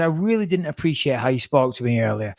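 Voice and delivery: measured, matter-of-fact complaint; calm. Retold or imitated. Passenger to air hostess while leaving the plane, calm complaint. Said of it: "I said it very calmly".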